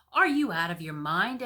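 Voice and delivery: loud outraged queen; queen scolding the king. Acted. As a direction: snap back at him.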